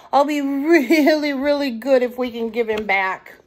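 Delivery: a hint of a begging child; little raccoon pleading. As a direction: promise hard like a small boy.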